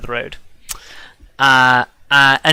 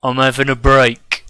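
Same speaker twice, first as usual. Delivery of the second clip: Cockney. Acted. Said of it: "Why is he Cockney?".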